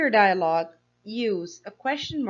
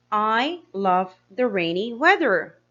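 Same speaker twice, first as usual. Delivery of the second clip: slower, each word set out clearly; slow careful reading; 5 dB louder than usual. Shown as a demonstration. Teacher rereading the example slowly to pupils. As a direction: read it slowly so children follow. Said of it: "Henry said".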